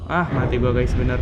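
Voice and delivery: loud panicked yelling; panicked shout. Real, not acted. Chased by monster in game.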